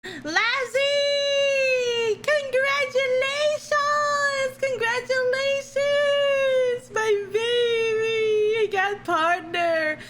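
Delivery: high, slow and drawn out; excited cheer. Real, not acted. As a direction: cheer it out, stretching it. Congratulating a new partner.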